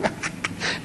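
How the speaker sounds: soft, breathy mock giggle; imitating child's giggle. Grandpa imitating his grandson giggling. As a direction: imitate a small boy giggling in hiding. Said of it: "And he's laughing".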